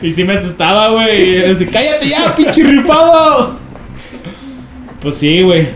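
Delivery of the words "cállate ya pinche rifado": high, laughing scared scold; imitating a spooked friend telling him to shut up; scared snapping. Friend snaps at the prankster. (imitando a un amigo asustado que regaña, agudo y riendo)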